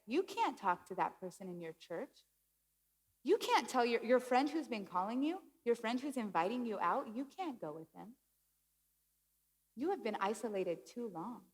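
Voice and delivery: lightly voiced inner accuser; voice of anxiety. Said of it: "This is what anxiety does".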